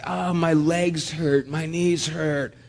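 mildly moaned complaint, drawn out slowly. Retold or imitated. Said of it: "they would start moaning".

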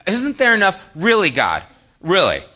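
loud complaint falling from high to firmer; exasperated protest. Acted. Preacher complaining to God in his own life, exasperated falling protest. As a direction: protest to God, each "really" dropping at the end. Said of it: "that's how I say it".

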